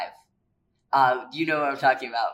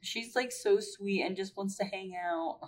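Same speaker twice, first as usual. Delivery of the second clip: gushing; 9 semitones higher, 4 dB quieter than usual. Real, not acted. Gushing about sweet Mandy.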